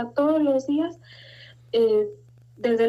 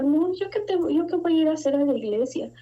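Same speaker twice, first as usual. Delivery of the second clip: imitating her proud old self, pitched up; mock-haughty refusal, starting high; 4 semitones higher than usual. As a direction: scoff at the very idea. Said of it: "como yo era muy soberbia".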